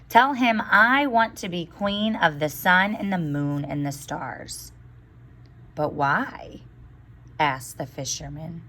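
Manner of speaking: put-on lively storybook reading for children; story read aloud. A narrator's reading. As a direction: read the tale to the class, voicing each character. Teacher reads fairy tale aloud.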